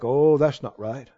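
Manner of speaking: low, soft, prim disapproving mutter; a hint of scandalized gossip; disapproving church folk. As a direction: voice the judgmental critics, pursed and quiet. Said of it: "they think".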